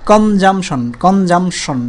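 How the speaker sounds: কনজামশন slowly in three beats, কন-জাম-শন; measured three-beat কনজামশন. Shown as a demonstration. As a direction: lightly separate কন, জাম, শন. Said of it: "তিনবার বাড়ি খায় এটা".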